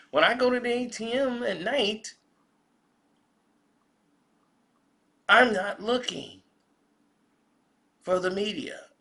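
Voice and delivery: high, put-on white American caricature; mock white America. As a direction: parrot the comedian's joke in a high-pitched mock voice. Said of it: "white America go".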